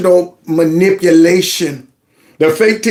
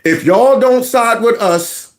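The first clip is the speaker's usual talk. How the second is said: slow, higher mocking repeat; mocking whine; 5 semitones higher, slower than usual. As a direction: drag it out to mock him. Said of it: "you hear that?".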